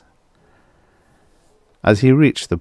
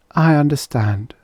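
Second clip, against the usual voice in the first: hollow; 8 semitones higher than usual. Acted. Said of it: "Her voice was hollow".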